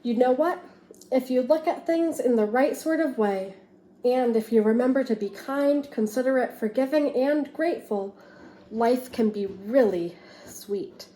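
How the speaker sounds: lively storybook read-aloud for a class; expressive picture book reading; reading to children. Acted. Teacher reads picture book aloud.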